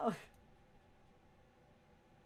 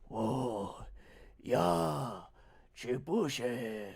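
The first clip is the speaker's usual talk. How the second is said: put-on elderly voice; 2 semitones lower, 5 dB louder, much slower than usual. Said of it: "Sounds like me trying to put on an elderly voice".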